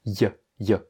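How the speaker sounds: "y" as a very short glide, not a full "ye"; barely voiced little "y"; tiny y glide. Shown as a demonstration. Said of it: "Pas un ye, un y".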